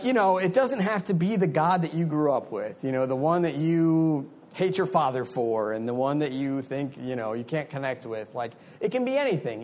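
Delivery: lightly imitated British roommate; a hint of badly faked British accent; terrible British accent. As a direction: attempt a British accent, loosely held. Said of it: "that's probably a terrible British accent".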